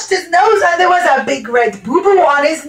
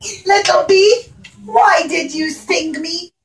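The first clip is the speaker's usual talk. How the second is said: bee language; 3 semitones higher than usual. Acted. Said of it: "language of the bees".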